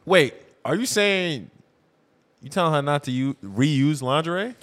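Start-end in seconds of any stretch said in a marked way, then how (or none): none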